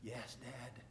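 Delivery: hushed, soft answer to a dying father; barely voiced; soft sons answering their dying dad; quiet reply. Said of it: "they went up to him real quiet".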